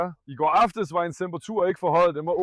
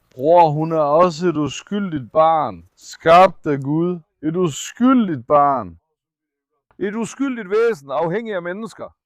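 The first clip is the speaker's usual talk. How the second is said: slow, louder, heartfelt appeal; earnest plea; 5 dB louder, slower than usual. Real, not acted. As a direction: press each word, slow and loud. Pleading for the sick dog.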